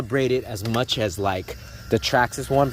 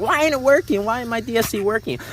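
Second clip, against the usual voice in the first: mock panic; 12 semitones higher, 4 dB louder than usual. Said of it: "at first I was like".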